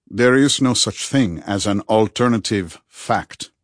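slow, lightly voiced wise friend; a measured hint of the philosopher; Rudy, firm and reasoning. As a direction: state it slowly as a settled principle.

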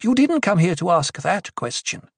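high, impatient rebuke; exasperated priestess challenging them; snapped. A narrator's reading. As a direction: scold the crowd with sharp authority. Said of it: "Aliyah snapped".

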